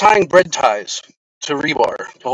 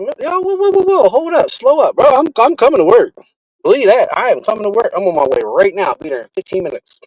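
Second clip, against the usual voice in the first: high, loud, rushed pleading protest; frantic, voice jumping up, holding off the news; panicked protest; 9 semitones higher, 5 dB louder than usual. Retold or imitated. Texting the guy from work that he is still coming, frantic and high. Panicked reply to coworker's goodbye text.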